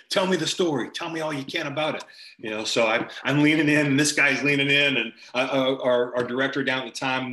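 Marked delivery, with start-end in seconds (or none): 0.1-2.0 eager urging. Retold or imitated. Acts out his eager reply.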